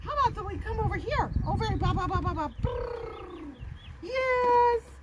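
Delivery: high, eager coaxing; coaxing puppy call. Shown as a demonstration. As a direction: lure her over cheerfully.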